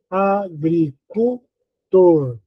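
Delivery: "agricultor" slowly split into "a-gri-cul-tor"; syllable by syllable. Shown as a demonstration. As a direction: sound out "agricultor" piece by piece. Teacher sounds out word by syllables.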